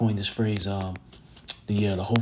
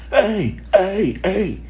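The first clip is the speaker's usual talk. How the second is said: calling out; 8 semitones higher, much slower than usual. Retold or imitated. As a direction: call out to someone down the street, half-acted. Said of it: "somebody's just yelling".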